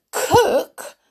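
high, loud, delighted echo; happy shout. Acted. The dwarves hear she will cook, happy shout. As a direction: shout it back with glee. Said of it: "the dwarves shouted happily".

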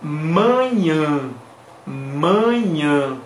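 manhã with both vowels nasal, falling; Portuguese nasal pronunciation. Shown as a demonstration. Teacher answering how manhã is pronounced, nasal demonstration. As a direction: say manhã slowly through the nose. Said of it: "como se pronuncia manhã".

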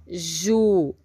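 "Jumento" split into ju, men, to with pauses; syllable by syllable. Shown as a demonstration. Teacher about to ask how many syllables, "Jumento" syllable by syllable. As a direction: sound out "Jumento" one syllable at a time. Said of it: "Quantas sílabas?".

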